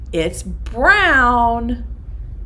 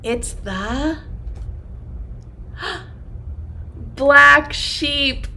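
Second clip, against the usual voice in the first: mock gasp of surprise; 3 semitones higher, much slower than usual. Teacher faking amazement at the children's guess. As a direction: act amazed at the answer.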